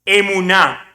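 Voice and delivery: "emuná" said firmly as three even syllables, landing on a held "ná"; model pronunciation. Shown as a demonstration. Preacher teaches the congregation a Hebrew term, clearly modelled "emuná". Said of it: "Repítalo conmigo".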